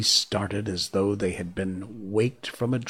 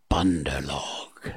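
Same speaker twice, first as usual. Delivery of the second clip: slow hypnotic snake voice; 5 semitones lower, slower than usual. Acted. Kaa addresses the monkeys.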